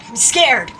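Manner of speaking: voiced, rising fear; frightened outburst. Yoshimura on the verge of tears, scared outburst. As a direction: let the fear burst out aloud. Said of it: "his face on the verge of tears".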